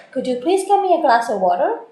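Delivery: softened, courteous ask rising at the end; polite request. Shown as a demonstration. Teacher showing OET students a polite softened request. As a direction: ask gently, like a considerate favour. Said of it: "Or I could make it polite".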